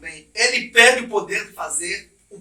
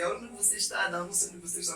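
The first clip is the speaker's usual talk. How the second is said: geographic question, not the meaning; 13 dB quieter, faster than usual. Shown as a demonstration. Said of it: "não é uma questão geográfica, assim".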